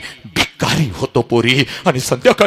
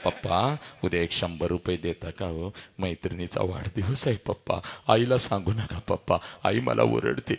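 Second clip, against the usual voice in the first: put-on quiet, coaxing child's request; soft pleading into the ear; 5 semitones lower, 6 dB quieter than usual. Daughter softly coaxing her father for money in his ear. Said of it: "हळूच माझ्या कानामध्ये".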